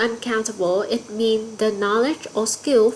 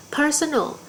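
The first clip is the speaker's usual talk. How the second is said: "Personal" with the first syllable higher and stronger; stress on first syllable; 4 semitones higher than usual. Shown as a demonstration. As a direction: say "Personal" as a model word, stressing PER. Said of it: "Từ personal sẽ nhân âm tiết thứ nhất".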